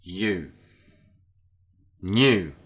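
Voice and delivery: each word said carefully and clearly; teacher modelling the sound E; model short e. Shown as a demonstration. Teacher models letter E words for repetition. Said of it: "Letter E and sound".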